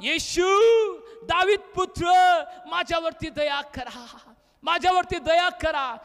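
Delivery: calling out to Jesus for mercy; loud cry. Acted. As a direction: cry out as a blind beggar, moderately loud. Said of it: "तो मोठ्यानं म्हटला".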